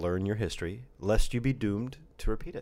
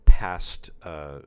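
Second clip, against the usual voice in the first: put-on old prospector; slower than usual. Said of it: "an old prospector".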